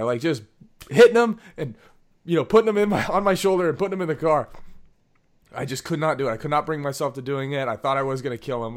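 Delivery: normal talking voice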